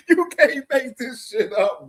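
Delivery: cracking up while talking; laughing. Real, not acted. Streamer laughing at a boxing rumor, laughing.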